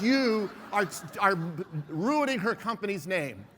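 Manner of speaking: loud, indignant scolding at a speaker; retold angry woman. Angry trainer confronts the speaker after his talk, loud indignant scolding. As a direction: jab the finger and scold him. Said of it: "looks angry".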